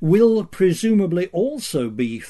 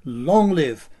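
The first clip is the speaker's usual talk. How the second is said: solemn state-media proclamation; north korean newsreader. Pretend. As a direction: declaim like a propaganda anchor. Mock tribute to dictator, declaimed.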